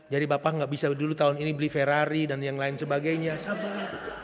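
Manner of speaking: soft, calm "Sabar dong, Ma, ya"; gentle right intonation. Shown as a demonstration. Husband gently calming wife about purchases, soft and patient. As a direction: coax the family kindly. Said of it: "Jadi saudara-saudara menyampaikan".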